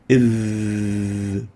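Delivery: a heavy, throaty "Iv"; ظ مفخمة; emphatic Arabic ظ. Shown as a demonstration. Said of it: "Edge of the upper incisor teeth".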